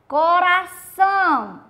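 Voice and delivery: Coração slow and loud, with the ção stressed; teacher models Coração; stress on the last syllable. Shown as a demonstration. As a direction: drag out Coração, hitting ção. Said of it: "que é a sílaba mais forte".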